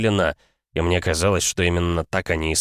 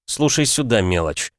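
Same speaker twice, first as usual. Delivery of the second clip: snarling; 3 semitones higher than usual. Acted. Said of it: "оскалился я".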